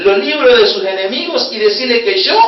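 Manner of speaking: God's command to Isaiah, proclaimed loudly. Retold or imitated. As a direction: announce it with booming authority. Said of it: "y Dios le dice".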